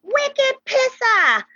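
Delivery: high-pitched mock scream; imitated scream. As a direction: draw it out in a high, hollered squeal. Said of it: "she screamed out".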